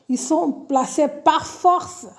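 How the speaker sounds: slow, weighted "par force", each word set down; careful slow phrasing. Real, not acted. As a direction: find the right words, say them slowly. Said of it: "Voilà, c'est ça". (articulé lentement, « par force » appuyé)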